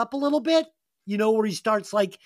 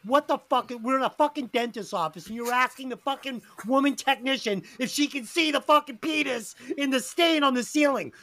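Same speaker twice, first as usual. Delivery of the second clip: higher-pitched, mock-outraged rant; retold exasperated scolding; 4 semitones higher than usual. Partner scolds speaker in car after dentist, mock-outraged. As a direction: imitate an exasperated telling-off, pitched up.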